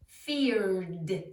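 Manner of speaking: "feared" drawn into a clear final D; voiced D ending. Shown as a demonstration. Teacher showing ed after R, "feared" ending in D. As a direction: let the R run into a D in "feared". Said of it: "It sounds like a D".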